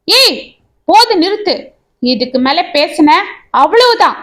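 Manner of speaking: angry warning. Acted. Friend grabs collar, threatens.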